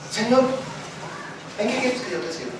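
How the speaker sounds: súplica que cae a un hilo de voz; Saulo rendido. Retold or imitated. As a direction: pregunta humilde y apagada. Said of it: "yo imagino a Saulo, todo bravo". (Saulo bravo se rinde y pregunta al Señor)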